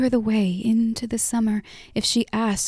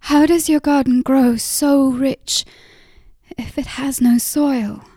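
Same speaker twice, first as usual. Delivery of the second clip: higher, louder urgent question; eager question; 5 semitones higher, 6 dB louder than usual. Acted. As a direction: push the question out. Question bursts out of Lara.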